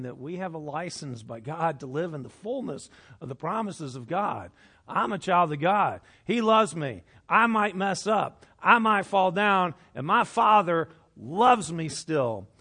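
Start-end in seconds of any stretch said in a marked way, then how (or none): 4.9-12.5 louder, with the final line slowed; fervent preaching; bold declaration. Real, not acted. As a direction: proclaim it with rising conviction. Preacher's rising declaration of faith.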